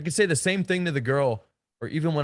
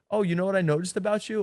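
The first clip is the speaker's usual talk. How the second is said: higher and fast, light and fun; playful teasing; 5 semitones higher, faster than usual. Shown as a demonstration. Coach showing a playful nightclub tease, animated. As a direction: tease her like it's a game. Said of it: "I'm really having a lot of fun".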